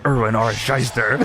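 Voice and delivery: a low, mock-serious Miz announcing a name. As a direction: drop the voice low and announce it like a wrestler. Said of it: "and Miz says".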